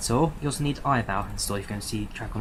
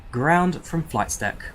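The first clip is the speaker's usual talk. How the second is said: slow, deliberate pilot call to ground; pilot radio call; slower than usual. Acted. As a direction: spell it out slowly like a captain. Pilot calling ground crew.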